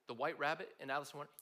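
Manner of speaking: ordinary talk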